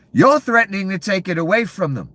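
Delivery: They've already spent the check yelled high and loud, already punched; furious shout. Real, not acted. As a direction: peak of the rant, hammer already. Ranting about greedy officials.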